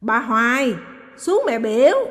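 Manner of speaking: loud, stretched-out shout upstairs; drawn-out call. A narrator's reading. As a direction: drag out the call to her sister. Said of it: "Phi tằng hắn và dài giọng". (kéo dài giọng gọi to)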